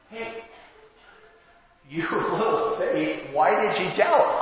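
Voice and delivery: tender encouragement instead of a scolding; gentle reminder. Retold or imitated. Jesus gently lifting Peter up, not scolding him. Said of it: "He's not scolding him here".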